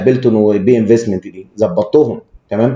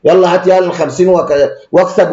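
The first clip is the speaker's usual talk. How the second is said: heartless pushy broker; 5 semitones higher than usual. Retold or imitated. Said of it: "لو انا انسان ما عنديش قلب اقول له".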